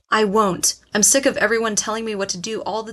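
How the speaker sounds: loud, furious defiance; angry outburst. Acted. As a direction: shout it back in defiance. Shouting back at mother.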